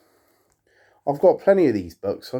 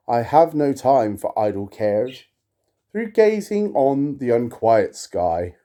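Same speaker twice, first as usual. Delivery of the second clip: measured, solemn recitation; poem reading; slower than usual. Acted. To viewers, reading Poe aloud, solemn poetic recitation. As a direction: intone the verse with gravity. Reads Romance.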